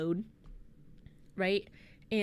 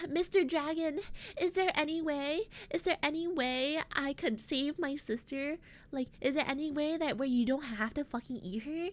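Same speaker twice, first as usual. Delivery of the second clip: higher, earnest pleading; pleading brother; 5 semitones higher than usual. Retold or imitated. Alex pleads with the dragon for his sister, higher and earnest. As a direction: beg the dragon politely for a way out. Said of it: "Alex is like".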